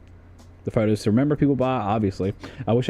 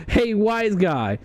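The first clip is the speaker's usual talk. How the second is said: put-on old-movie wise guy; 8 semitones higher, much slower than usual. Old-movie exchange acted out.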